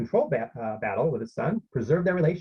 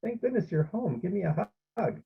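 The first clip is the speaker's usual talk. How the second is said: mildly acted, higher-pitched relief; a touch of sad sincerity; lightly voiced worried parent; sincere, sad tone; 7 semitones higher than usual. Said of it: "in a sincere, sad tone".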